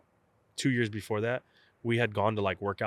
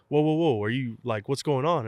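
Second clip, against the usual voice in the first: alarmed coach; 4 semitones higher, 4 dB louder than usual. Retold or imitated.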